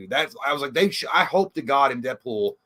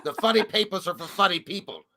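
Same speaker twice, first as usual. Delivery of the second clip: lightly voiced dismissive grouch, pitched up; mock-curt put-on answer, a bit higher; Loomis; 5 semitones higher than usual. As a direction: brush the question off in character. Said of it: "like, what Loomis would say".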